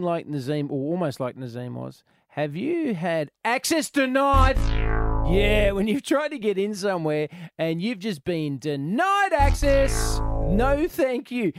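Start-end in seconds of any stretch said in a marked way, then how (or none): 2.3-11.5 dramatic drawn-out announcement. Acted. Host dramatising access denied.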